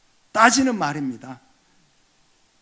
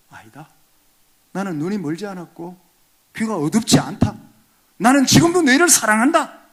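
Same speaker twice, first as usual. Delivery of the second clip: God answering; 3 semitones higher, 8 dB louder than usual. Retold or imitated. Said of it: "그렇게 말씀하세요".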